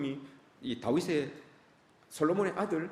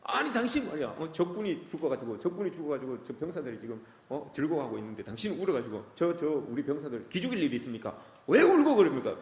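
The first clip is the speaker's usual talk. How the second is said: mock scold the weeping king, building to a shout; scolding rebuke. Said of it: "호통쳐요".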